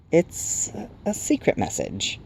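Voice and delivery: soft, slow, half-whispered reluctance; secretive hush. A narrator's reading. Uneasy sprite guarding its message, hushed whisper. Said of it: "shifting his weight from foot to foot".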